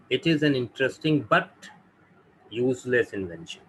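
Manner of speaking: slow, careful reading of the example; teacher's slow model sentence. Shown as a demonstration. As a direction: read each word out slowly for the class. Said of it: "जैसे".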